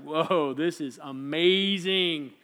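slow, drawn-out amazement; awestruck. Acted. Peter seeing Moses and Elijah, awestruck. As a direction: marvel at it, stretching the words.

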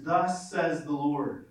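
slow, stretched "Thus", falling tune; slow solemn proclamation. Shown as a demonstration. Preacher repeating scripture's refrain, slowly and solemnly. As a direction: draw "Thus" out and let the line fall. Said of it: "over and over and over again".

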